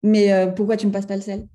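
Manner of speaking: exasperated outburst; losing it. Pretend. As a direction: snap over the salt. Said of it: "vous pétez un câble". (emportée, à bout de nerfs)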